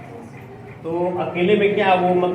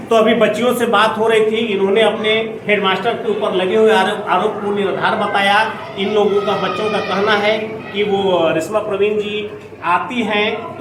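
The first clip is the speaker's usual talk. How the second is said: news piece to camera. Acted. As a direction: address the camera like a field reporter. Reporter sums up for camera. (कैमरे से बात करता reporter)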